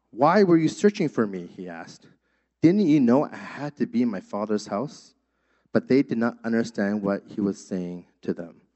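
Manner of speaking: measured, solemn Bible reading; scripture reading. Acted. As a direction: read the passage to the congregation, unhurried. Reads the Gospel passage aloud.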